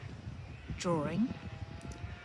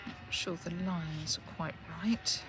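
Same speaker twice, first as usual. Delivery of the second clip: talking around a pen held in teeth; muffled words past a pen in mouth; 5 dB louder than usual. Real, not acted. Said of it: "I just was holding that pen in my mouth and I couldn't speak".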